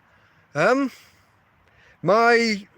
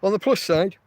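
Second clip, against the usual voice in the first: burping; 3 semitones higher than usual. Real, not acted. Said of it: "oh, excuse me, I'm burping".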